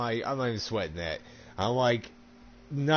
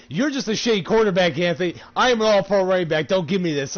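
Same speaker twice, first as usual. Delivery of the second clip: mock rival owner; 4 semitones higher, 7 dB louder than usual. Voicing the rival owner's retort.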